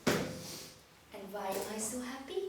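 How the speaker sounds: slow, laughing, talking down; slow, amused, patronising question; humorous patronising. Shown as a demonstration. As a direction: talk down to her like a children's TV host. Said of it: "just do it fully".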